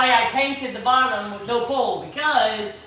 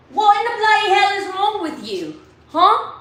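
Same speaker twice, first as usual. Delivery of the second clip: higher, indignant mock British; British accent; 5 semitones higher than usual. Pretending to scold someone, hammed-up British accent. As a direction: demand it in a put-on British accent. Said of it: "You missed me being British yesterday".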